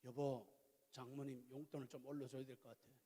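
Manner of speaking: lightly voiced wife; wife's gentle request. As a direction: coax him after an hour. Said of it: "저희 집사람".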